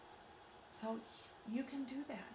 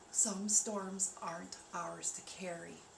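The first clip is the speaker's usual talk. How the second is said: slow emphasis; slower than usual. Shown as a demonstration. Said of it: "Think about what I just said".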